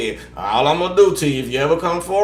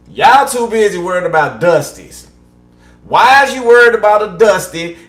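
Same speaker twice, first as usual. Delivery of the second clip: louder, rising exasperation; exasperated scolding; 5 semitones higher, 7 dB louder than usual. Real, not acted. Reader scolding her viewers in a louder, fed-up voice. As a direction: call them out, fed up.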